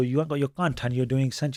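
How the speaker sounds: plain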